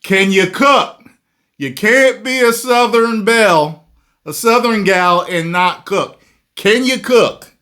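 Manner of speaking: loud high-pitched playful grilling; teasing challenge. Pretend. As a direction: needle her with a mock-stern can-you-cook. Teasing challenge to host as Southern gal.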